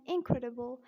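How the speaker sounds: American "incredible" with a tapped D; American-accent demo of incredible. Shown as a demonstration. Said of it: "in American accent".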